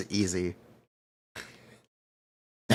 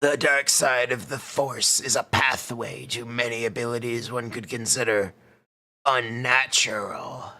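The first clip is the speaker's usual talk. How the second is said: Star Wars villain impression. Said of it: "To a Star Wars impression".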